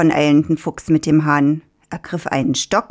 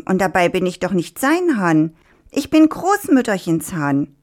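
rooster voice. Acted. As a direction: insist proudly as the rooster. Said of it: "ließ nicht locker". (hohe, beharrliche Hahnenstimme)

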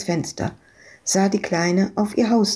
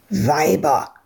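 growl; 4 semitones lower than usual. Acted. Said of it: "knurrte Freak".

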